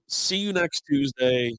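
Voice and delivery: each word slowly spelled out; slow pointed insult. Acted. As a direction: drag it out, biting.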